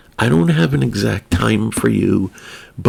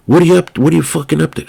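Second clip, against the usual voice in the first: put-on higher, louder New York wannabe-gangster accent; 7 semitones higher, 4 dB louder, much faster than usual. The Italian friend calls and demands what he's up to, in a loud New York gangster accent. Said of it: "New York-ish wannabe gangster accent".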